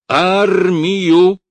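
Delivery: loud, high rising yell; shout. A narrator's reading. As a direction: hurl the word at him. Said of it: "крикнул Бураев".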